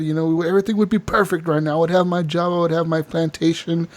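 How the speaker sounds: lightly voiced aggrieved slave owner; imitated self-justifying complaint. Slave owner justifying himself, retold.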